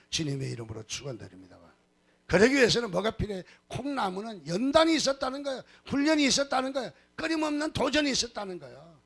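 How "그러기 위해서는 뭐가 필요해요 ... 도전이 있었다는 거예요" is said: high, driving sermon delivery; impassioned preaching. Real, not acted. Preacher urging the congregation about training and challenge, impassioned. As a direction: drive each point home at a high pitch.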